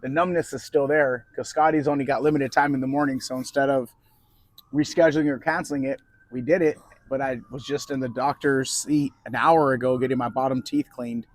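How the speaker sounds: talking with a numb mouth; slightly lisping, half-numb mouth; numb from the dentist. Real, not acted. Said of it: "if you hear me lisp or talk funny".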